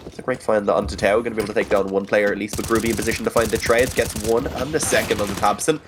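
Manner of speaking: live play-by-play commentary; esports caster. Acted. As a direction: call the round as it happens.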